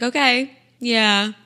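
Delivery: gentle stylist voice. Retold or imitated. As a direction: draw it out, gently ending things. Stylist ending the hug.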